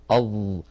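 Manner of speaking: low "أظ" with a buzzing held ظ; demonstrated ẓa. Shown as a demonstration. Teacher showing the small breath, low sustained "أظ". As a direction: keep "أظ" voiced, only slight air escaping. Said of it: "انطقوا حرف الظاء".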